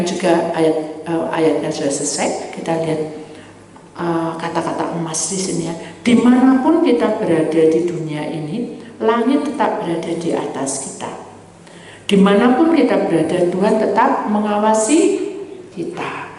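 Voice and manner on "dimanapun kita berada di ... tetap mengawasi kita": loud, ringing sermon close; loud uplifting proclamation; closing proclamation. Real, not acted. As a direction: lift the congregation with the golden words.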